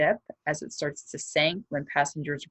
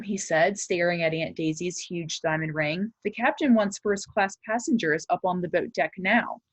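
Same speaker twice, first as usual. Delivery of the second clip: lively chapter-book reading to a class; story read aloud; 3 semitones higher than usual. Acted. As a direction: read it to the kids with suspense. Reads the novel aloud.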